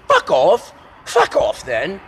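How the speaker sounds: high, loud mock British shout; mock British yell. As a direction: yell it like the British girls did.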